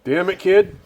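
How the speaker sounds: mock holler at the kid; mock gruff holler; imitating George. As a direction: bark it like the gruff old operator. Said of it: "I remember that being hollered all the time".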